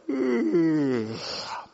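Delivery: long falling stretching groan; waking-up stretch groan. Acted. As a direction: groan like a creature stretching awake. Rooster stretching, then "he's stretching.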